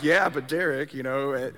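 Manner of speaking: a hint of God's patient retort; God answering back. God answers Derek's protest, lightly voiced and calmer. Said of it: "And then God's like".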